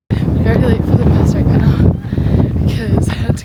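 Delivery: panting, breathless after a sprint; out of breath. Real, not acted. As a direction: talk while catching your breath. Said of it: "I'm really out of breath right now".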